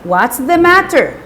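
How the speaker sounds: mildly stern demand; understated irritated questioning; acted angry question. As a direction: ask crossly, with a touch of impatience. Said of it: "Mister Bumble asked angrily".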